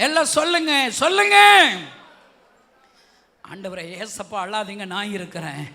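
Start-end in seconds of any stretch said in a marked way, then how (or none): 3.4-5.6 soft, low tender plea; whisper-soft prayer to comfort Jesus; hushed prayer. Shown as a demonstration. Preacher leading the church's prayer, hushed and low.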